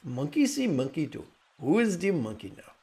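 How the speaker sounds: playful sing-song puppet teasing the viewer; commercial monkey voice. Retold or imitated. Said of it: "an animated monkey ... say".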